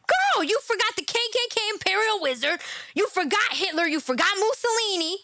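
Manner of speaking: sassy mocking reprimand; mock scolding. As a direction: tease her like a forgetful student.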